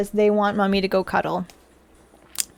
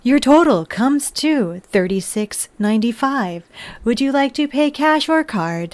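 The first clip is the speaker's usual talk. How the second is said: robot voice. Retold or imitated. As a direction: read the total like a machine. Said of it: "I just started mimicking it".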